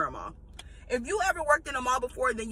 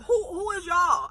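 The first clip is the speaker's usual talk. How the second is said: laughing disbelief; 5 semitones higher, 4 dB louder than usual. Real, not acted. Laughing while repeating retort.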